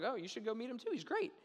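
acted sarcastic cheer. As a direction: gush with mock innocence, lifting at the end. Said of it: "In the most sarcastic way possible".

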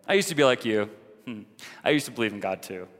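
lightly mock a smug ex-believer; self-righteous. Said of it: "So self-righteous".

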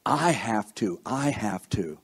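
repeated, with weight on each "I"; emphatic "I" each time; stress on I. Shown as a demonstration. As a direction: lean on "I", then let "have to" drop. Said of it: "The emphasis is on I".

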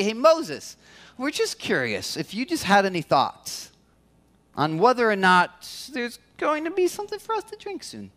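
overly sweet, casual asking, tongue in cheek; mock polite request. Pastor mocking what Israelites should have asked Moses, sweetly polite. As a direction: ask Moses nicely, almost teasing. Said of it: "They don't say".

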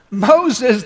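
mocking laugh. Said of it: "the burglar laughed".

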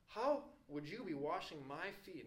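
mildly acted bewilderment; incredulous. Peter cannot fathom Jesus washing him.

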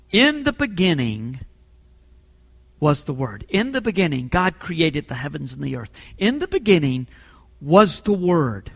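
deliberate reading, pausing after each phrase; solemn scripture reading. Real, not acted. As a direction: dwell on the opening words of the verse.

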